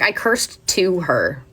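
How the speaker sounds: slow, drawn-out "to"; stress on "to". Retold or imitated. Student correcting the man's "curse at her", stressed "to". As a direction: lean on "to", spacing it out slowly.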